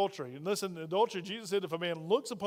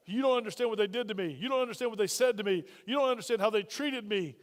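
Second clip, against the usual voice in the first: imitated rage; 3 semitones higher, 4 dB louder than usual. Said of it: "rage cranks up".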